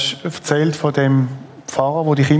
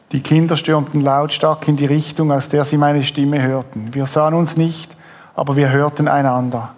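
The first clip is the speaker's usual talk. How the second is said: steady book reading; lightly moved reading of a memoir scene; reading aloud from a book. Acted. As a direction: read the passage to the audience. Host reads book passage aloud.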